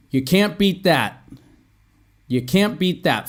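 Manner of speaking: YOU CAN'T BEAT THAT with a confident final fall; falling intonation. Shown as a demonstration. Teacher modelling intonation for learners, falling tune. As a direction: let THAT drop to close the statement. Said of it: "Follow my pronunciation too. ... I mean intonation".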